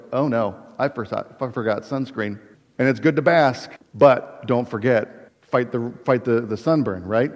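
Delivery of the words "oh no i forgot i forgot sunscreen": lower, softer aside, lightly acted; a hint of a nagging thought, understated; little inner voice. Preacher voicing the beachgoer's sudden thought, little inner voice. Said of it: "that little voice in the back of your head".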